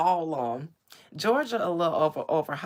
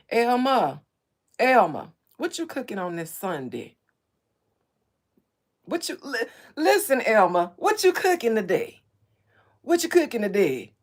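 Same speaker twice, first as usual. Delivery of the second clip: put-on Mississippi accent; 4 semitones higher, 7 dB louder than usual. Streamer asking Elma what's cooking, loud attempted Mississippi accent. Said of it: "That was my attempt to do a Mississippi accent".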